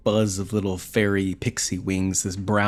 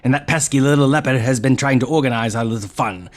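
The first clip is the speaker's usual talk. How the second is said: pixie; 2 semitones higher, 4 dB louder than usual. Acted. Brownie replies to Darnell.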